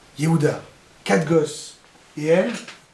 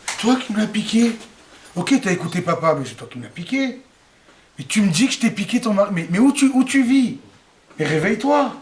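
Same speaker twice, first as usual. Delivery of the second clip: indignant retort; 3 semitones higher than usual. Acted. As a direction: snap back at your sister. Rachel retorts to Léa. (réplique indignée, plus haute et plus forte)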